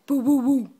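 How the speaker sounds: dog bark imitation. Shown as a demonstration. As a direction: bark a bit bigger. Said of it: "What does the doggy say?".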